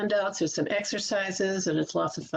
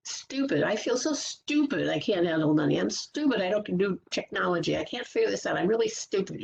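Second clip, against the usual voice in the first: mock self-scolding; 2 semitones higher than usual. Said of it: "acting out self-criticism".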